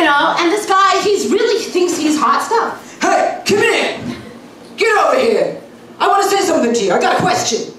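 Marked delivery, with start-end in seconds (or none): 3.0-7.7 lightly voiced cocky come-on; mock smooth pickup guy. Cocky guy at the bar calling her over, mild swagger. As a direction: call her over like a self-assured flirt. Guy who thinks he's hot stuff.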